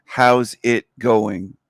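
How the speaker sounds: Canadian greeting. Shown as a demonstration. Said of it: "it's very common to ask someone".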